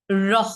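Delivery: "রহ" flapped with a puff of breath, like "rho"; aspirated r. Shown as a demonstration. Teacher demonstrating the aspirated r, breath released. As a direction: release breath right after the r in "রহ". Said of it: "ইংরেজি আর এইচ ও এর মতো".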